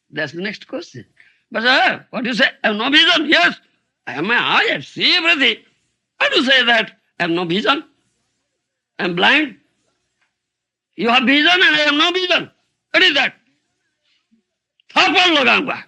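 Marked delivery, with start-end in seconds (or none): 1.5-13.4 raised, fast and protesting; indignant protest. Retold or imitated. Student protesting to the teacher. 14.9-15.8 raised voice, half-joking threat of a slap; mock threat. Teacher threatens the proud student.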